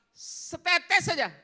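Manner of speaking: slow, loud, pleading drawl; begging. Acted. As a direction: beg for a single drop. Rich man begs for water.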